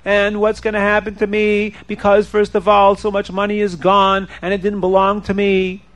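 mildly plaintive singsong complaint; worried buyer bemoaning his lot; distressed lament. Acted. Robbed buyer laments in story.

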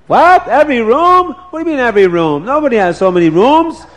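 high, startled disbelief; astonished. Acted. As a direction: squeal it out in shock. Wife asks, astonished.

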